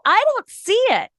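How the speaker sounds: mocking voice. Mocking people who pretend.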